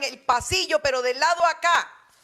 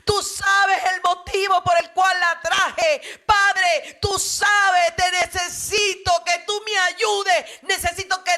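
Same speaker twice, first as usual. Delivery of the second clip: tearful pleading prayer; 3 semitones higher than usual. Retold or imitated. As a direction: beg God for your daughter's life. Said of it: "lloraba y le decía".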